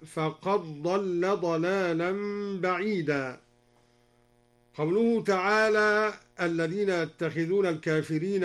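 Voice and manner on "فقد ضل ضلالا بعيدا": "فقد ضل" joined as faqaḍ-ḍalla; dal merged into dad. Shown as a demonstration. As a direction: slowly recite "فقد ضل" with a doubled dad and no d. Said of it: "وأدغم الدال في الضاد".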